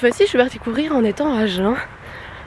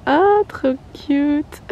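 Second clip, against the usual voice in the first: gushing; 6 semitones higher, much slower than usual. Real, not acted. Sees a rabbit.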